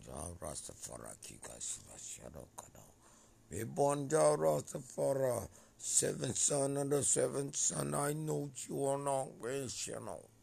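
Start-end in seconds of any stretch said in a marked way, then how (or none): 3.5-10.3 high, very loud declaration; shouted proclamation. Real, not acted. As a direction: shout it out at full force. Impassioned proclamation of names and titles.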